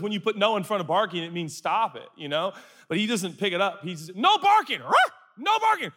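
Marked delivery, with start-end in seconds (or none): 4.1-4.8 high-pitched scolding yelp; exaggerated high command to a puppy; dog command. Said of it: "When he barks, I say". 4.8-5.1 one high yappy bark; squeaky mock puppy bark; imitated dog bark. Imitates the dog barking back. 5.4-5.9 high-pitched scolding yelp; exaggerated high command to a puppy; dog command. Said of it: "When he barks, I say".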